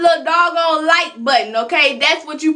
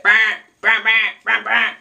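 imitated error buzzer; 6 semitones lower than usual.

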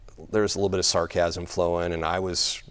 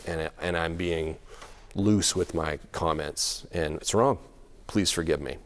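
sincere apology; 4 semitones lower, 4 dB quieter than usual. Retold or imitated. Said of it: "So I just said".

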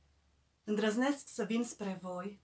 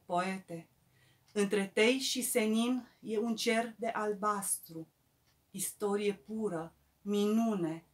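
reverent, measured ode; poetry recital. Acted. Poet addressing Eminescu in verse, reverent measured recital. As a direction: recite as homage, settling at the end of each phrase.

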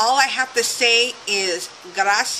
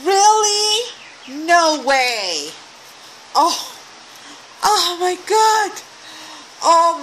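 high, loud gasps of delight; thrilled disbelief, pitched way up; excited squeal; 7 semitones higher, 3 dB louder, slower than usual. Real, not acted. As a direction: squeal over the surprise gift. Opening a surprise gift.

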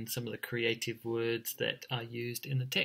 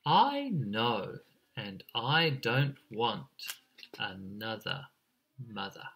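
tender, settled; 2 semitones lower, slower than usual. Acted. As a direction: wind down gently into a hushed ending. Chick contented with mother, story ending.

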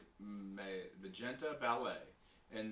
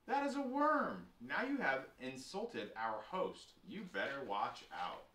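indignant; slower than usual. Acted. Sister to brother who insulted their host, indignant. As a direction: play indignant, then slow down to warn.

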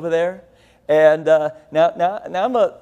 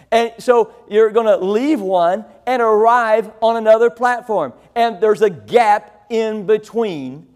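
preaching; 2 semitones higher than usual. Acted. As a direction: lean into each point like a preacher driving it home. Preaching on mind the gap.

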